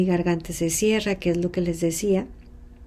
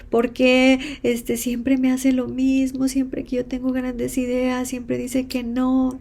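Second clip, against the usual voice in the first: tearful complaint; 4 semitones higher, slower than usual. Retold or imitated. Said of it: "a llorar, y decir".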